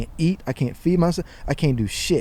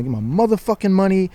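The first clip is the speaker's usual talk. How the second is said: going off; 2 semitones higher than usual. Retold or imitated. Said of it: "going off on his voicemail".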